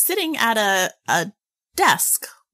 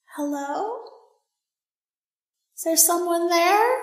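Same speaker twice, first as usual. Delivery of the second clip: very high, small, distant, echoing tiny voice; 9 semitones higher than usual. Game master voicing an unseen voice heard behind the players, echoey tiny voice. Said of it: "you hear like an echoey kind of tiny voice".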